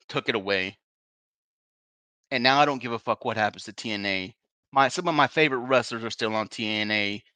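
low, heavy and deflated; dejected. Real, not acted. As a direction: let the disappointment weigh on each word. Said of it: "I need time to recover".

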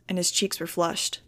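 plain reading voice

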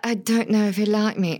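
lightly imitated British accent; a hint of mock-lovelorn British actress accent; Daisy Ridley. Host parodying another lovesick heroine, light British accent. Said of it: "Or Daisy Ridley".

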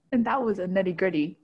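ordinary talk

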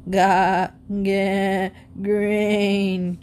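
clucking hen voice; cackling hens. Acted. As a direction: cackle the word out. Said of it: "cackled the hens".

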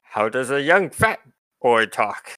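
lightly voiced retort from a bird warrior; bird ranger character. Bird ranger retorts when asked how he talks, lightly voiced character. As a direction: throw the question back, in character. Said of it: "he says to the three of you".

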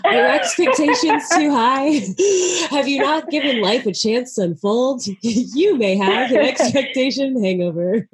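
playful TV pitchman sales voice, breaking into laughs; infomercial voice. Pretend. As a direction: sell it like a late-night infomercial, laughing. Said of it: "Your infomercial voice is so good".

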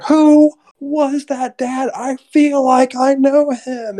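put-on high, slow, dreamy girl voice; dazed Laura. Retelling Laura asking her father in the car, slow dreamy high voice. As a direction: drift through it, half in a trance. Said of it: "She's like".

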